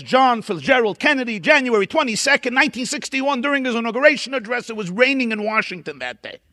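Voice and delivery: put-on light Japanese accent, high and eager; a schoolboy's hint of a Japanese accent. Japanese boy answering the teacher, in a light Japanese accent. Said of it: "He did it in a Japanese accent".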